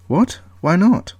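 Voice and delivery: startled high cry; sudden shocked question; surprised. Acted. Shocked reaction to refusal.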